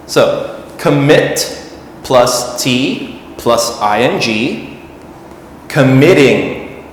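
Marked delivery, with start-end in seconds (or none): 0.8-1.6 "commit" stressed on MIT, voice rising; stress on second syllable. Shown as a demonstration. Teacher building the -ing form, second-syllable stress on "commit". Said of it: "The stress is on the second part". 5.7-6.8 "committing" with MIT stressed, falling after it; stress on second syllable. Shown as a demonstration. Teacher modelling the -ing form, middle syllable stressed in "committing". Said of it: "The stress is on the second part".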